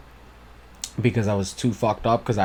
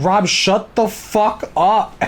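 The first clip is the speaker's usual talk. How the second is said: mock snap; 10 semitones higher, 4 dB louder, slower than usual. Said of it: "he's like".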